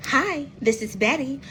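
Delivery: mom's polite phone-answering greeting, lightly imitated; telephone voice. Daughter mimics mom answering the phone, telephone voice. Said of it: "a telephone voice".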